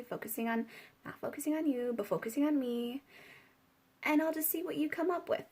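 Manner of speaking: softly acted, self-possessed amusement; amused. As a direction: play her coolly waiting, quiet and lightly amused. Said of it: "She's amused".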